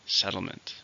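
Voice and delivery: "Settlement" said SET-tle-ment, stress on SET; stress on first syllable. Shown as a demonstration. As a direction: hit SET in "Settlement", the rest light. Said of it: "stress on the first".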